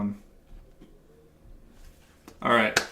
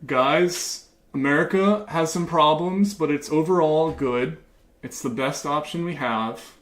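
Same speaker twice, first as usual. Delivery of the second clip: mock patriotic pandering; 3 semitones higher than usual. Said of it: "I'm gonna keep talking like this".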